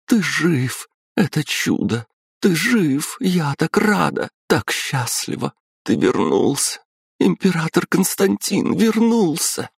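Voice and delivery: высокие радостные выкрики; ликовать от счастья; ликующая радость. A narrator's reading. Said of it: "счастливо улыбаясь". (императрица ликует, что муж жив)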